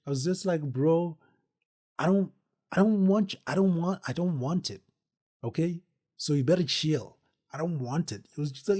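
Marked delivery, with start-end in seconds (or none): 0.6-8.3 higher, louder mock protest; heated refusal. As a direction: push back, rattled and fast.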